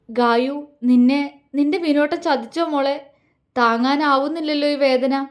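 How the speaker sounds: a touch of a breaking voice, grieving; faltering voice. Acted. Vinod pleading to his dead love's portrait, understated faltering grief. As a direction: let the words falter lightly with grief. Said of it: "ഇടറുന്ന ശബ്ദത്തോടെ".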